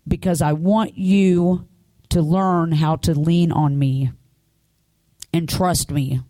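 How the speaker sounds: deliberate retold instruction, easing down to the end; retold voice of God. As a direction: lightly voice God, spacing out each phrase. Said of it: "I heard him say".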